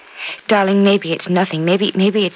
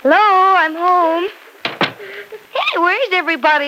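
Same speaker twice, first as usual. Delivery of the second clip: calling out; 11 semitones higher than usual. Acted. Penny arrives home, calling out.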